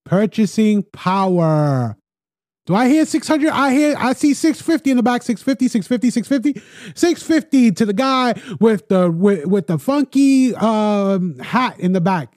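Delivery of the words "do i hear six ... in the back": lightly voiced auctioneer, higher and brisk. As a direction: call the bids like an auction house. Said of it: "he becomes an auctioneer".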